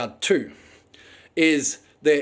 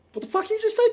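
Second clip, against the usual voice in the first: outraged disbelief; much faster than usual. Retold or imitated. Confronting swearing bus driver.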